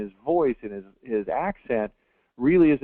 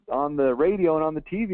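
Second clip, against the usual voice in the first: usual speaking voice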